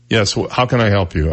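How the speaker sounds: curt, mildly annoyed phone answer; get-out-of-my-face tone. Shown as a demonstration. Answering a telemarketer, with a mild get-lost tone. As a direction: brush off the caller, lightly. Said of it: "get out of my face approach".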